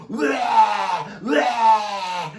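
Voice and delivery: high, loud mocking chant of blah; mock the endless chatter with a loud high blah; hammed-up high blah blah. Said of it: "like, over and over".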